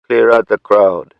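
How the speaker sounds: slow, loud command to his men; firm captain's command over the radio; ordered. A narrator's reading. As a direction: bark the order slowly. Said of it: "he ordered".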